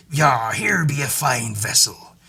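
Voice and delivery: slow, drawn-out cartoon sea-dog voice; comic seafarer impression, stretched out; Simpsons sea captain. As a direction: put on a hammy old salt. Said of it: "and the sea captain's there".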